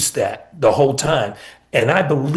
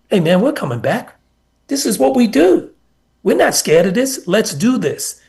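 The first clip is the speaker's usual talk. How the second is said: high, eager rallying call; fired-up player; 7 semitones higher than usual. Retold or imitated. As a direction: pump up the teammates. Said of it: "And he's like".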